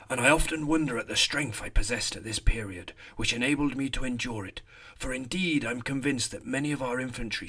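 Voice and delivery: put-on reads the soldier's words in a rustic rural English accent; a light rural English accent for an old rifleman; lightly voiced rural English shepherd's accent. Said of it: "Don't know where that accent comes from".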